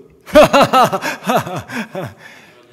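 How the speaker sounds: loud, breaking laugh through tears; a real teary laugh; embarrassed laugh. Real, not acted. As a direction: laugh it off, overwhelmed. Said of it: "왜 그러죠".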